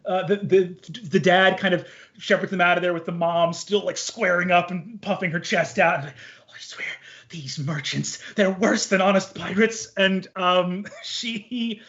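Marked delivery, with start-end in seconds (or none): 6.1-9.9 muttered grumble. Acted. Mother mutters leaving.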